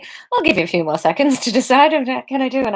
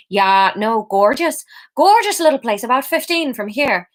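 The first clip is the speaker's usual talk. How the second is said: attempted Irish accent; 2 semitones higher than usual. Theo saying it to the stranger, attempted Irish. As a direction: give directions in a light Irish accent. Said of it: "okay, Irish".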